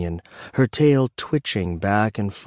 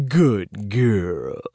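proud. A narrator's reading. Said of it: "he said proudly".

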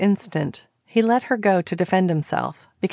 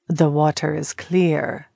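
gentle reminder; 3 semitones lower than usual. Acted. Njord gently reminding Callie she can be seen. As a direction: remind her kindly, no pressure. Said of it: "Njord reminded her gently".

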